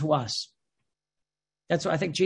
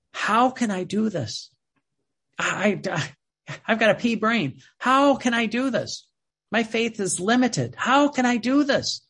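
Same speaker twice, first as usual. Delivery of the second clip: higher-pitched, helpless questioning with falling ends; helpless protest; 4 semitones higher than usual. Acted. A believer asking God how, in helpless protest. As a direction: plead your own inadequacy, rising in pitch.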